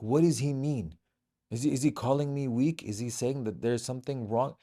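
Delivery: lightly voiced hurt pride, not a real rant; mock offended boss. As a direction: play him mildly indignant, half-mocking. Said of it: "he got so mad".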